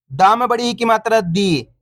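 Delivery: final "दी" stretched long; teacher's chant ending on a long "दी"; drawn-out vowel. Shown as a demonstration. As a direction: spell it out, then hold the ee in "दी". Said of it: "अपन खींच खींच के पढ़ेंगे".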